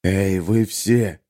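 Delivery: slow, creaking call from the corner; creaky voice. Acted. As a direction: creak it out wearily. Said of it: "проскрипел с дальнего угла камеры". (скрипучий медленный голос)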